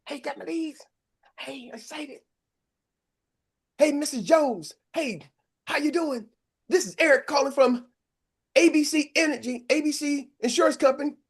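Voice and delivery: like a rookie agent who has just got fresh leads; eager new agent. Retold or imitated. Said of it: "you're like".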